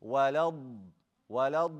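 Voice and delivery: Walad with the final d held long; dragged dad. Shown as a demonstration. Teacher models the proper dad, Walad with a long ending. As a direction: drag the end of Walad as a heavy ض. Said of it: "how to say the dad properly".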